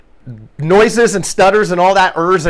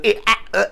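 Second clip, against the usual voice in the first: filler sounds; 2 semitones higher, 4 dB quieter, faster than usual. Shown as a demonstration. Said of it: "the things that I just did".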